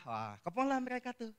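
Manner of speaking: normal talking voice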